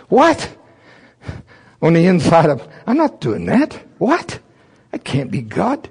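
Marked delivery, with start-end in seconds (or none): 0.1-4.4 recoiling at the order; high squeaky refusal; disbelief. Retold or imitated. Retold shock at God's command.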